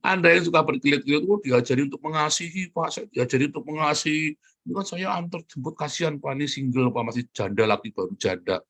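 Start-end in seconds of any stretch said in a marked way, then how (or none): 1.3-8.6 mock innocent excuse. Preacher mimicking a man excusing rides with a young widow. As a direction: play the cheater justifying the rides.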